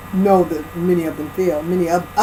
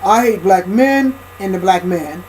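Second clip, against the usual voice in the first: hammed-up caricature of a bitter woman; lightly put-on angry caricature, then dropped; mock caricature voice; 3 dB louder than usual. Shown as a demonstration. Speaker mocking a caricature of black women, hammed-up angry voice. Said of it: "No, black women don't talk like that".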